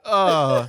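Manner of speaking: low, weary cartoon groan; mock groan. Garfield hearing the menu on a Monday, groaning. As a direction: groan with a laugh underneath.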